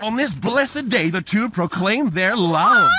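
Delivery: slow, loud announcing; grand proclamation. Acted. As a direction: proclaim it like a herald.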